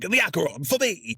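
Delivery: hammed-up captain claiming his prize; captain's proclamation. Captain showing the model ship to officers, high mock proclamation. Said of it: "he's like".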